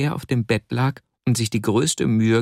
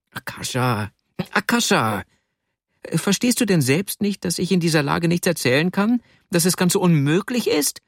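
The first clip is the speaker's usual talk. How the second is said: deutlich höher, gequält protestierend, aber nicht lauter; schreiend; 7 semitones higher than usual. Acted. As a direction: ein schwächlicher Mann protestiert höher. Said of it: "schrie der schwächliche Vasja". (höher, gequält, angedeutet geschrien)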